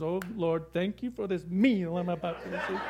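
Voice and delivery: mock pious, laughing through it; laughing grace. Bear says grace over the man, preacher laughing through the punchline. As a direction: say grace while cracking up. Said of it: "the bear goes".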